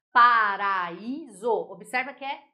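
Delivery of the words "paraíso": "paraíso" drawn out very slowly, syllable by syllable; louder, slow demonstration of "paraíso" in separate syllables; sounded-out syllables. Shown as a demonstration. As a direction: stretch "paraíso" so the split between a and i is heard. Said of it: "é sonoramente a gente divide".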